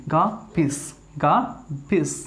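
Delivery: गार्बेज ending in a sharp whistle-like s; teacher shows students the whistle sound at the end; whistling s ending. Shown as a demonstration. English teacher modeling गार्बेज with a whistled hissing end. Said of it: "वो सीटी की आवाज़ है ना वो निकलनी चाहिए".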